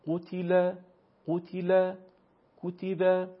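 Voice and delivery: قتل and کتب with a short u in the first syllable; short Arabic zamme. Shown as a demonstration. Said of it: "یک حرکت". (ضمهٔ کوتاه عربی در قتل و کتب)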